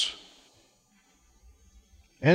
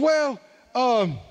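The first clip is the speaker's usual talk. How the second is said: laughing, slower sheepish climbdown; sheepish admission; 2 semitones higher than usual. Retold or imitated. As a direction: backpedal with an embarrassed chuckle. Man sheepishly backing down.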